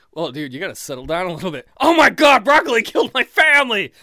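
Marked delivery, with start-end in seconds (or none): 1.8-3.9 much higher and much louder hammed-up despair; melodramatic mock wail. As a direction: overplay the grief as a joke. Mock melodramatic listener outburst.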